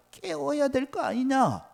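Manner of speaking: high, slow sneering taunt; mocking taunt. Elijah jeering that the god needs waking, high mocking. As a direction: jeer it up high.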